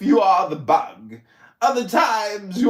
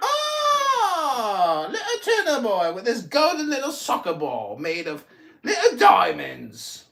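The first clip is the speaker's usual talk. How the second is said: mocking taunt. Mocking Tuna Boy as a pampered little boy, sneering. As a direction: taunt him like a spoiled little child.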